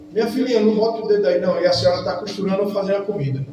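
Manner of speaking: a quick, fussy warning to a little granddaughter; mock grandma scolding. Grandma warns the toddler away from the socket, fast and fussy. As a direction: rattle it off like a busy grandma. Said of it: "dona Patrícia diz assim".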